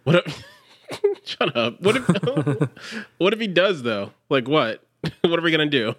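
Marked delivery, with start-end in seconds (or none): 0.0-3.8 high, laughing protest. Real, not acted. Laughing at cohost's Jack joke, high and giggly.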